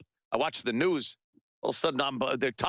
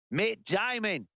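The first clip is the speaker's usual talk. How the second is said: mock Aussie vowels on "Matt Damon"; put-on Australian accent. Aussie accent after Australia is named.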